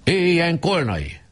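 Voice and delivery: high, slow cheering; enthusiastic cheer. A narrator's reading. The boys cheer Kolnai, high and drawn. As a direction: cheer the new president. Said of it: "lelkesen kiáltották".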